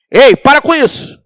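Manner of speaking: loud, high scolding shout; sharp, booming telling-off. Acted. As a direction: shout it like a parent stopping a toddler. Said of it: "tem que alterar a voz".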